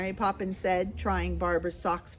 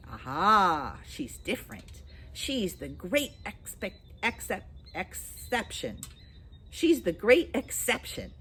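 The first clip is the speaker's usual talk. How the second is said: confiding starling; 4 semitones higher than usual. Acted.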